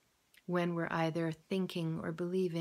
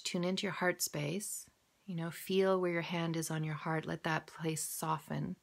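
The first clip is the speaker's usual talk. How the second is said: guided visualization. Acted. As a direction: talk them gently through the exercise. Leads a visualization exercise.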